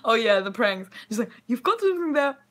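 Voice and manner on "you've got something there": goblin voice. Retold or imitated. Goblin prank, retold.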